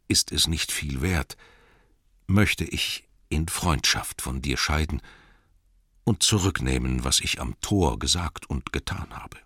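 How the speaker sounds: understated solemn farewell, with pauses; lightly voiced dying Thorin. Dying Thorin making peace with Bilbo, mildly solemn. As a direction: speak measured last words.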